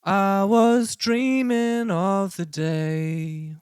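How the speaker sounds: sung with light auto-tune; half auto-tune. Shown as a demonstration. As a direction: sing it with pitch correction halfway on. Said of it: "I'll show you what it sounds like at fifty percent".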